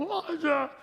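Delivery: high sudden call of the name; calling out to child. Retold or imitated. Father yelling to toddler holding knife, high alarmed call. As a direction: yell the kid's name in alarm.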